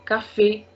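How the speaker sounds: "Cafe" said ka-fay; accented E sound. Shown as a demonstration. Teacher giving an accent aigu example, "Cafe" as ka-fay. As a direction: end "Cafe" on a clear ay. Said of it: "A sound".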